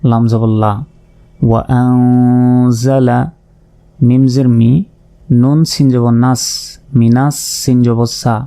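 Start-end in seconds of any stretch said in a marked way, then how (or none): 1.4-3.2 slow drawn recitation; recited slowly. Shown as a demonstration. Teacher joins the syllables, slow chant. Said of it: "joined reading demo".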